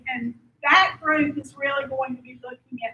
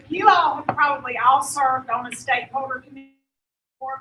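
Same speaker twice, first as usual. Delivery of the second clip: teacher voice; 5 dB louder, faster than usual. Real, not acted. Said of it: "I'll use my teacher voice".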